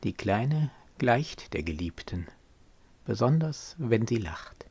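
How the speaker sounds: soft, wistful close of a poem; subdued poem recitation. Acted. Lovesick man sees his beloved's eyes in the child, soft recitation. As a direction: let the verse sink softly, with pauses.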